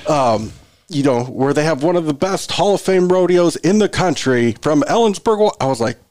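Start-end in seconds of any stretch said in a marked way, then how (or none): 1.2-5.5 higher-pitched arena announcer build-up. Retold or imitated. Announcer introducing the team from the rodeo town, hyped announcer voice. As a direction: imitate a game announcer hyping the crowd, rising in pitch. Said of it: "I'm doing my announcer voice".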